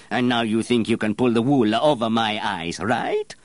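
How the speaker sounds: sarcastic, high and loud, with a laugh; mocking master perfumer. Master perfumer mocking apprentice as a swindler, sarcastic. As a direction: sneer at the little swindler.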